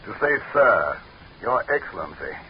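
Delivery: high, pointed demand for respect; imperious rebuke. Acted. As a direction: remind him who's in charge. Leader demanding his title.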